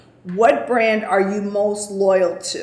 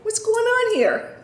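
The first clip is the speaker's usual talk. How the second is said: retold road rage yelling; 9 semitones higher, much faster than usual. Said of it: "And I was like".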